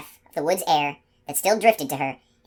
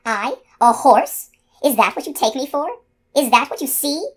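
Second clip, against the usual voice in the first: insulted to the core; outraged disbelief; 9 semitones higher, 5 dB louder than usual. Acted. Unicorn outraged at being called horse.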